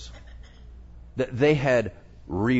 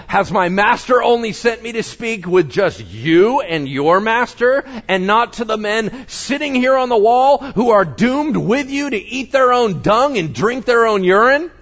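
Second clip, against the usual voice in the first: higher, louder mocking shout; shouted retort; 9 semitones higher, 7 dB louder than usual. Assyrian envoy shouting back at the leaders, loud jeering. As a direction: jeer at the men on the wall. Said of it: "the guy said to them".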